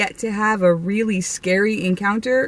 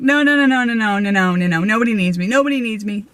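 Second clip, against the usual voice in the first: loud ghostly plea; faster than usual. Retold or imitated. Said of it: "And just as loudly".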